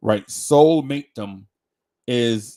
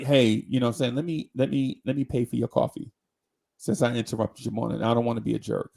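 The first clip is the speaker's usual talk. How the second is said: charming; 5 semitones lower than usual. Retold or imitated. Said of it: "just be charming".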